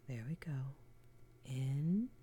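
tender comforting whisper close to the ear; ASMR whisper. Acted. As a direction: soothe a trembling partner in a hushed whisper. Comforting partner whispered throughout.

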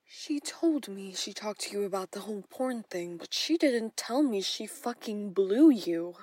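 jealous rage breaking out of the whisper; building from loud to a furious shout; furious outburst. Acted. Jealous stepmother learns about blowjob.

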